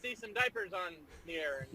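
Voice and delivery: put-on rambling old politician; Joe Biden impression. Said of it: "do the voice again".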